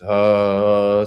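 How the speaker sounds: long, drawn-out low "huh"; demonstrated long exhaling sound; sighing release sound. Shown as a demonstration. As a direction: let out a slow releasing sigh.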